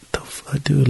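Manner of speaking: hushed whisper of self-doubt; inner whisper. Retold or imitated. Podcaster voicing his own doubts, whispered. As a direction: breathe it out like a private thought.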